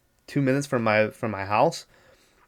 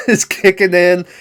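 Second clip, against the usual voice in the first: laughing fit; 7 dB louder than usual. Real, not acted. Laughing at the movie's craziness.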